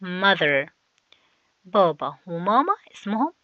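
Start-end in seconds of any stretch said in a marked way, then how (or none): 0.0-0.7 Mother said with the tongue slightly out on the th; teacher shows pupils the th in Mother. Shown as a demonstration. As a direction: show the tongue between the teeth in Mother. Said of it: "بنطلع لساننا حاجة بسيطة".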